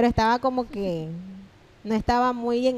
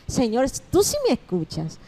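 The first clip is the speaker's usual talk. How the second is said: tender prayer. Retold or imitated. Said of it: "y decía".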